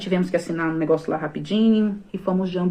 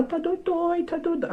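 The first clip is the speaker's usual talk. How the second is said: put-on much higher, childlike whimpering answer; little girl's voice; 12 semitones higher, 5 dB quieter than usual. Crying toddler answering the doctor, high and childlike. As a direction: imitate her small crying daughter. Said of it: "E ela chorando".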